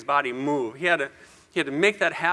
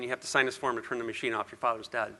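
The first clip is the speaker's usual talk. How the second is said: low, soft delivery of bad news; subdued, lowered voice for bad news; grave retold verdict; 6 semitones lower, 9 dB quieter than usual. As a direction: quote the doctors quietly and gravely. Retells doctors' grim news.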